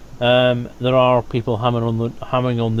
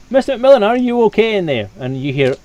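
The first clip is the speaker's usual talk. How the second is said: higher, louder calls through a door; guards shouting; 5 semitones higher, 4 dB louder than usual. Acted. Guard demands the boss open up, shouting loud.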